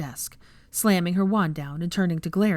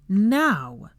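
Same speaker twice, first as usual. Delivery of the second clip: loud, sharp command; angry order; 3 semitones higher, 4 dB louder than usual. A narrator's reading. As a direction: bark it to end the argument. Angry teacher orders students.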